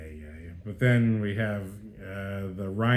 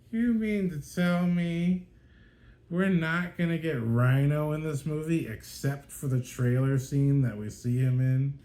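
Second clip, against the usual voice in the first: incredulous; 5 semitones higher than usual. Retold or imitated. Incredulous complaint about Rhino.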